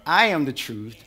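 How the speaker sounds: lightly voiced God, firm and loud; preacher voicing God, loud and firm. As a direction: declare each "I am" with authority. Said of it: "And God is saying".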